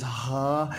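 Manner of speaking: R said as an aspirated "ha"; Portuguese R as an h sound. Shown as a demonstration. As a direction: demonstrate the breathy Portuguese R. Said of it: "y en portugués es".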